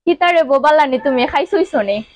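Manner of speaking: Sylheti dialect. Shown as a demonstration. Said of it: "এটা শুদ্ধ ভাষায় বলো".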